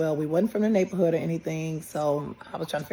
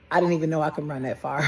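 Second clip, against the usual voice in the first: fast, laughing through the words; 5 dB louder, faster than usual. Real, not acted. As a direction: laugh it off quickly. Laughs at her own running.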